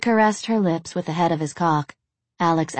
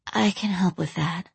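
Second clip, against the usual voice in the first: whispering; 3 dB quieter than usual. Acted. Succubus offering softly.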